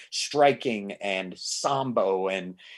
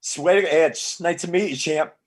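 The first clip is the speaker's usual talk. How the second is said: awkward fanboy gush; 6 semitones higher, 3 dB louder than usual. Retold or imitated. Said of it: "I just went".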